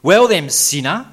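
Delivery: the law of God. Acted. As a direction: call him out like a judge. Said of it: "the law keeps calling him sinner".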